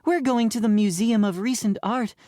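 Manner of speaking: high-pitched teacher voice; teacher announcing. A narrator's reading. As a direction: announce the prank trip in a high voice. Teacher announces real destination.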